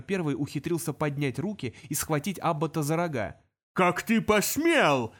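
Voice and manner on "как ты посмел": slow, louder demon roar. Acted. Demon roaring as horns grabbed. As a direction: bellow in outrage. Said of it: "взревел он".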